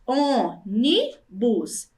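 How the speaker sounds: very slow "Ônibus" with gaps between syllables. Shown as a demonstration. Teacher showing three syllables, pausing between each. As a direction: break "Ônibus" into three separate beats. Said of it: "Essa palavra tem três sílabas".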